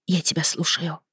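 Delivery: very soft, timid reply; almost whispering. A narrator's reading. Daughter bracing for her father's talk, almost whispering. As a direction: answer just above a whisper. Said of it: "ответила почти шёпотом".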